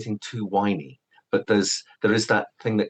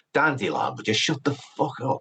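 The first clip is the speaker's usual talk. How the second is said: Scouse character voice, much higher pitched; 6 semitones higher than usual. Explaining the accent used for Geralt's voice, Geralt, really Scouse. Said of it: "And that's so Scouse".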